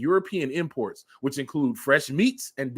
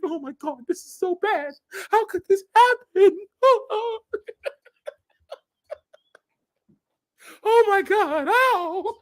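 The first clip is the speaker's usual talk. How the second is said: much higher, mock-crying panic; mock wailing dismay. Mocking fired Facebook staff in hammed-up despair. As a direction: whine it like a fired tech worker falling apart. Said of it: "It's like".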